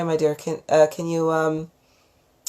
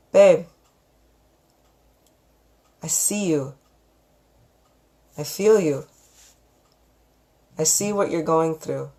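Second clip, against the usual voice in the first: calm loving voice. Shown as a demonstration. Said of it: "in this calm voice that has nothing but love in it".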